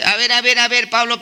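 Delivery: lightly acted interjection, repeated insistently; challenging interruption. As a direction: cut in as a puzzled congregation. Corinthian church interrupts Paul, acted.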